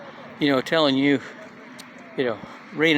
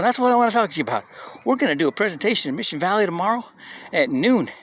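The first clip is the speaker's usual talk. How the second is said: fast, higher salesman patter; eager pitch; 5 semitones higher, faster than usual. Retold or imitated. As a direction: rush the invite like a keen rep. Young guy pitching, retold.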